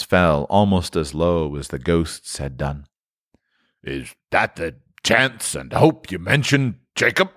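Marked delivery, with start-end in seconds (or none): 3.8-7.3 faltering. Acted. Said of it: "he demanded in a faltering voice".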